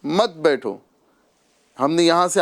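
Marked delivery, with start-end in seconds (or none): 0.0-0.8 مت بیٹھو as one falling group after a stop; مت بیٹھو together, falling at the end; مت joined to بیٹھو. Shown as a demonstration. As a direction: keep مت with بیٹھو. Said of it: "یہاں رک گئے".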